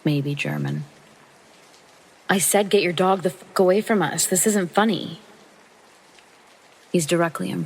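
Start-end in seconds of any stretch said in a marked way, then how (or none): 2.3-5.2 insistent re-enacted protest, pitched a bit higher; acted-out heated retort; angry demand. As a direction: demand it firmly, fed up and alarmed. Retold shouting match with dog owner.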